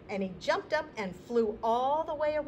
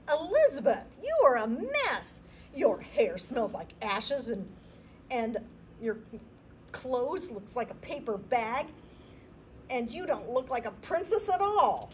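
higher, haughty prince voice; snooty prince; 4 semitones higher, 4 dB louder than usual. Acted. Prince to his rescuer, snooty scolding. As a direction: look down your nose at her.

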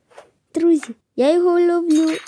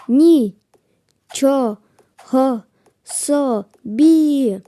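slow, drawn-out amazement; slow awed wow; amazed; much slower than usual. Real, not acted. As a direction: stretch it in wonder. Amazed at game.

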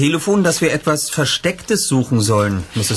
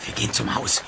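whisper; 6 dB quieter than usual. Acted. Sneaking up to the house.

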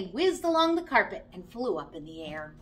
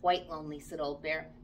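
put-on lower, softer, weary old bear; sleepy old toy bear voice; lightly voiced old bear; 8 semitones lower, 5 dB quieter than usual. Old lonely bear answers.

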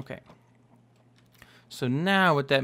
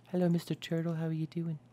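higher, softer little voice; soft greeting to a turtle; 3 semitones higher, 5 dB quieter, faster than usual. Pretend. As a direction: greet a small animal gently.

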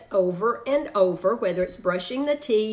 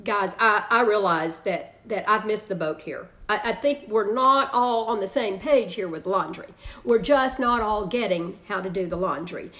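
calm parent. Shown as a demonstration. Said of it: "here's how it may sound with the laundry".

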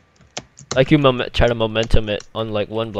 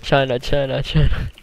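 Trump impression. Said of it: "panda rap of Donald Trump".

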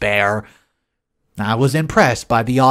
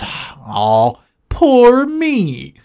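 high, loud sarcastic whine of self-pity; mock whiny pity; 8 semitones higher, 4 dB louder, much slower than usual. Mocking Shelley's self-pity about the hotel, high whiny voice. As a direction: sneer it out like a spoiled complainer. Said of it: "Shelley goes".

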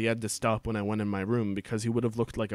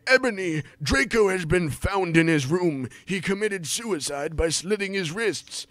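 mock grave Dumbledore; 4 semitones higher than usual. Dumbledore delivers grim news.

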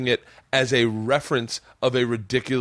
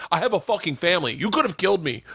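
mild mock fury, higher and hurried; retold outrage, pitched up; angry security guard; 6 semitones higher, faster than usual. Security guard nearly hit by the twelve pack, mildly angry.

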